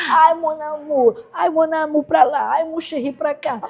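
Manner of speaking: drawn-out sarcastic mon amour; mocking mother. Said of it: "minha mãe era debochada".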